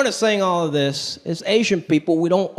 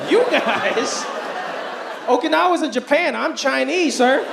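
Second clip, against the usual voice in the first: mock indignant self; 4 semitones higher, slower than usual. Retold argument with a veteran.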